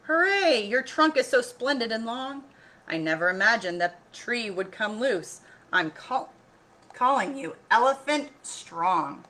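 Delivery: high, loud joyful king; delighted king. Acted. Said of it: "cried Elephant Mighty".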